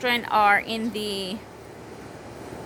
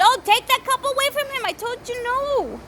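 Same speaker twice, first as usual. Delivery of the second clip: high-pitched, raised parental command; calling out orders; 10 semitones higher than usual. Real, not acted. Mother telling child to take a cup away, high scolding call.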